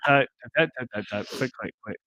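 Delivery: spoken typing noises; mock typing effect. Host voicing keystrokes while awaiting an answer, mock typing effect. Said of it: "Insert typing effect now".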